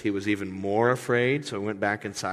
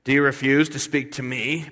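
irritated; 4 semitones higher, 5 dB louder than usual. Retold or imitated. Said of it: "gets his Irish up".

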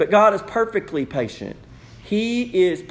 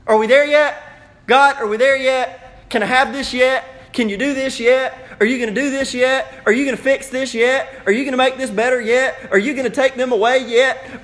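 impatient pleading; 5 semitones higher, 4 dB louder than usual. Retold or imitated. Adults pleading impatiently to God.

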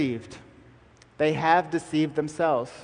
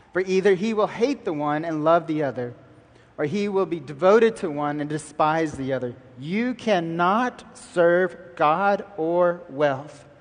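scripture reading. Acted. Preacher reading verse twenty-four to congregation, deliberate.

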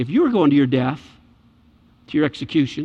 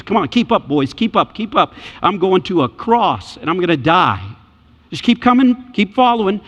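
urging Jesus. Acted. Preacher voicing Jesus urging disciples.

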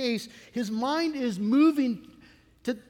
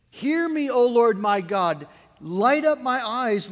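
loud pleading prayer; 7 dB louder, slower than usual. Acted. Preacher voicing David, crying loudly to God in prayer. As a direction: cry out the plea to God, loud and slow.

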